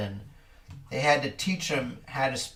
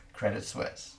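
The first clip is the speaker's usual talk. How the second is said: whispered punchline; 4 semitones lower, 7 dB quieter than usual. Acted. Punchline of the joke.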